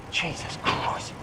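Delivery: slow, whispered exasperation; whispered curse. Real, not acted. Cursing to himself at the wrong shop, slow whisper. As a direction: breathe the curse under the breath.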